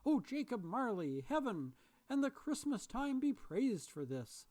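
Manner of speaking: high, loud, overjoyed; joyful repeat. A narrator's reading. Scrooge scrambling out of bed, overjoyed and loud. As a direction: burst with joy. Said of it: "Scrooge repeated as he scrambled".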